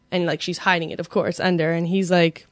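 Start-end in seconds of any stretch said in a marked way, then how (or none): none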